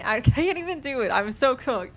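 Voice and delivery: laughing at own failed Australian accent. Real, not acted. Streamer laughing after botching an accent. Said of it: "I cannot even do it".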